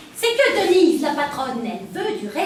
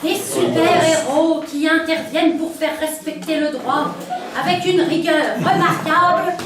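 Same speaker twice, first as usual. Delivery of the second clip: sensual voice. Acted. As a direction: read it like a hotline purr. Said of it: "La voix sensuelle?".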